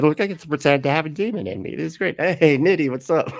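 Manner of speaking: quick, lifted mock-kid chatter; playful excited kid. Kid playing along with a pretend demon, playfully excited. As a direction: act the delighted child, lightly.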